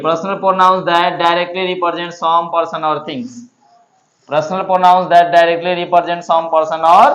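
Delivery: slow, evenly paced recitation. Shown as a demonstration. Teacher reciting the definition slowly for memorising. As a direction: say it slowly to learn it. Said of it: "कैसे याद करना है?".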